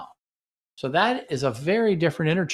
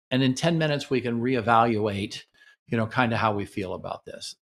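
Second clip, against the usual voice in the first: gentle startup. Shown as a demonstration. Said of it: "always use gentle startup".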